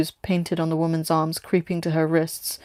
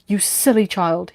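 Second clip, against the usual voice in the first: scolding; slower than usual. Acted. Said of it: "he scolded her".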